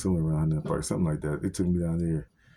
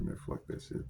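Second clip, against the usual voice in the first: whispered grumble; 15 dB quieter than usual. Retold or imitated. Tired after night shift.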